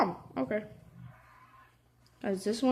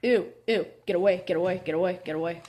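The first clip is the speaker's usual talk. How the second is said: panicked; much faster than usual. Real, not acted. Panicked at a monster.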